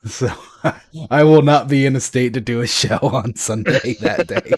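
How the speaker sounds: talking through a laugh; amused admission, chuckling; real laughter. Real, not acted. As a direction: let the laugh break into the words. Joking about drinking, laughing.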